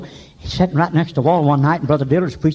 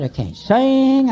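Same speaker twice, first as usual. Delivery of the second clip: mock wife; 8 semitones higher, much slower than usual. Imitating humble wife.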